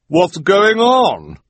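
high, slow puzzled voice; a bewildered man calling out, drawn out; Bruce asking. A narrator's reading. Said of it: "Bruce asked".

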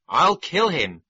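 angry tiger threat. A narrator's reading.

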